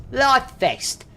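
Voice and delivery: high-pitched mock Cockney. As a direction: show off Cockney slang in a high put-on voice. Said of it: "I am a Cockney through and through".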